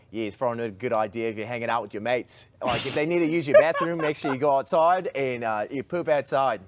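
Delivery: light New Zealand accent impression. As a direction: say it like a Kiwi health official. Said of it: "so that you could do your New Zealand accent".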